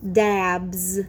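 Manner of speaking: Dabs said clearly, ending in a voiced z; teacher modelling a word. Shown as a demonstration. Teacher modelling the word for the class. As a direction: model Dabs, sounding the final z. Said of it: "The next word is dabs".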